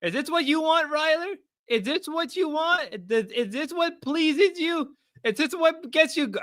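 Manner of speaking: very high, sing-out falsetto; mock taunting. Streamer asking Ryler what pleases him, mock falsetto taunt. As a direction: tease in a squeaky-high put-on voice.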